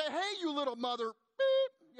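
high, loud, drawn-out telling-off; mock scolding. Waitresses jump on Chuck for their pastor, mock scolding. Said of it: "waitresses there jump on Chuck".

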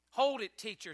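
loud call from the back; shout. Acted. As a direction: call out to stop him. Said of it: "shouted a husky voice".

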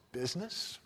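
soft, stunned echo of the word Business; hushed disbelief. Acted. Marley's ghost repeats Scrooge's word, soft and stunned. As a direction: murmur Business as if it stings. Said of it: "cried the ghost".

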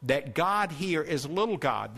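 little God, with the word "little" leaned on; stress on little. Shown as a demonstration. Preacher explaining the small gods to the church, stressing "little". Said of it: "I want you to point out".

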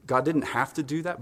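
normal talking voice

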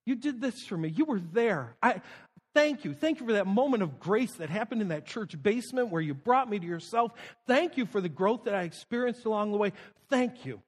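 a touch of hushed thanks; grateful to Jesus. Pretend. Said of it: "I'm able to go".

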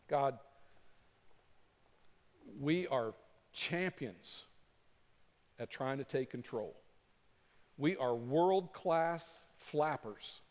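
slow, deliberate public prayer; confessing to God in measured phrases; spoken prayer. Acted. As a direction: pray aloud, spacing out the phrases. Leads a closing prayer.

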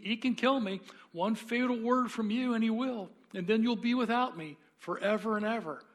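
a sly lizard begging for its life; chattering lizard. Acted. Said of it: "the lizard began chattering".

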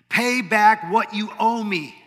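the ruthless servant squeezing his debtor; stern demand. Retold or imitated. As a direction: spell out every word as a threat. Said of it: "he demanded".

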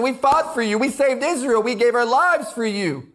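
bold rebuke. Acted. Army commander rebukes the king for shaming his men, bold rebuke. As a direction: confront the king, holding nothing back, pitch climbing. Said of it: "one rebuke after another rebuke".

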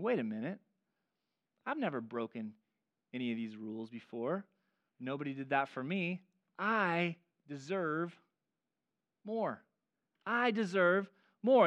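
a hint of a sulking older brother; sulky pity party. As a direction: sulk over being overlooked. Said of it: "starts to have a pity party".

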